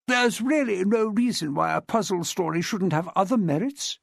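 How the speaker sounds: haughty, as the Dragon Empress; Miss Chilmark. Acted.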